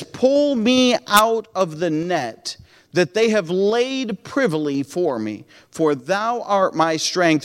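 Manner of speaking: slow solemn reading of the psalm; scripture reading. Acted. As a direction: read it like a prayer.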